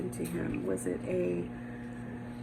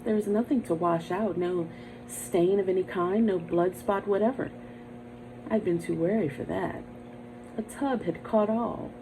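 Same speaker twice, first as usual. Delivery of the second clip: tense, measured storyteller reading; story narration; 3 dB louder than usual. A narrator's reading. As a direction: read it like a creeping horror tale. Dramatic reading of Poe tale.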